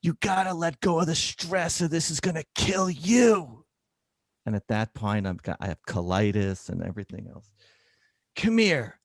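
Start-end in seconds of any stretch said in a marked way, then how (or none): 0.0-3.6 put-on much higher old woman voice; imitating a blunt old patient; old lady scolding. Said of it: "patient warns doctor". 8.4-9.0 put-on much higher old woman voice; imitating a blunt old patient; old lady scolding. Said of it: "patient calls doctor".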